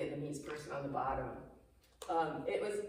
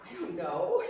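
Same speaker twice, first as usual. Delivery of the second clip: helpless; 6 semitones higher, 5 dB louder than usual. Retold or imitated. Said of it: "I was like".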